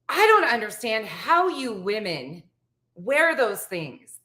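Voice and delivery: slow, drawn-out imitated bafflement; baffled. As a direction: act out a mildly baffled man, word by word. Acts out the baffled assistant.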